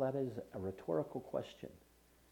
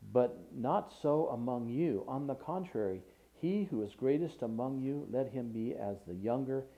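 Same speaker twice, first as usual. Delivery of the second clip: raised, measured reading of Gospel verses; scripture reading; 3 dB louder than usual. Acted. Preacher reading Jesus' words to the congregation, declaiming. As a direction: lift the scripture above the sermon, declaiming it. Preacher reads Luke aloud.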